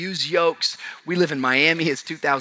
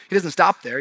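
normal talking voice

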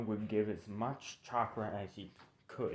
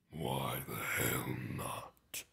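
very deep, slow raspy growl; drawn-out, whispery giant-fox rumble; Kurama voice; 9 semitones lower, much slower than usual. Acted. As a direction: growl it low, like a huge beast. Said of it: "trying my best English Kurama voice".

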